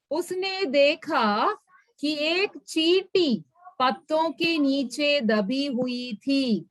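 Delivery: reads each Hindi word slowly for the class; slow, careful reading aloud; slow story reading. A narrator's reading. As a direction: spell the story out for learners.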